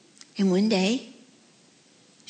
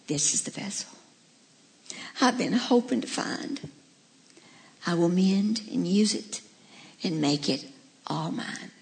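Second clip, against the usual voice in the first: tender, hushed. Acted. Master tenderly chooses clay vessel.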